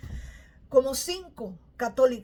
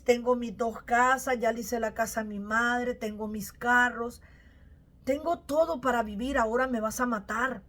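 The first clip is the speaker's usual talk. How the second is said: anguished prayer. Retold or imitated. Retelling her prayer to God by the sea, a mild desperate plea. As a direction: lay out everything you have and beg why.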